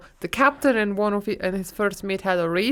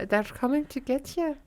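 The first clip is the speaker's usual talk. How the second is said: spooky whisper; 5 semitones higher, 6 dB quieter than usual. Pretend. Spooky teasing threat.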